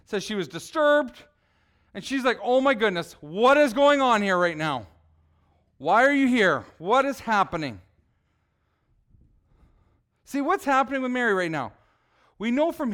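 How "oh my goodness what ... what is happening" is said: freaking out. Acted. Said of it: "was she freaking out a little bit".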